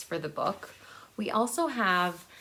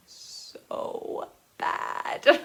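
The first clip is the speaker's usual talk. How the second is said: breaking into laughter on the words; giggling through the words; laughing; 7 semitones higher than usual. Real, not acted. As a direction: laugh it out in disbelief. Laughing at bad writing.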